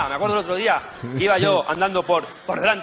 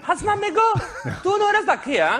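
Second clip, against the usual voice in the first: much higher, hammed-up vendor hawking; street vendor voice. Comedian voicing the street vendor he asked for directions, higher hammed-up vendor voice. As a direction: squeak it out like a pushy street seller. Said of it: "Y me dice el tío".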